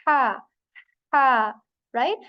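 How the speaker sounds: breathy ha blown out; airy ha. Shown as a demonstration. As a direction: blow out ha like fogging glass. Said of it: "when we say".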